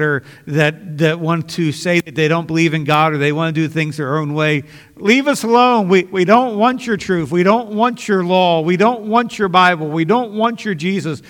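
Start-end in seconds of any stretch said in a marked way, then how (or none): 5.0-11.2 raised, defiant voice of a world that wants no God; higher and louder, pushing God away; defiant outcry. Acted. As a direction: throw it back as a stubborn refusal. Preacher voicing the world's defiance.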